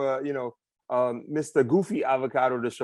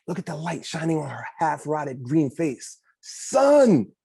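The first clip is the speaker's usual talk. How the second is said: excited; 4 semitones higher, 4 dB louder, slower than usual. Acted. Describing scary witch decoration.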